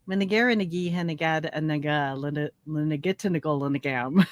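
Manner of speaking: nonsense syllables with nag inserted into each word; Pig Latin. Shown as a demonstration. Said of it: "Can you say, "Mary had a little lamb"?".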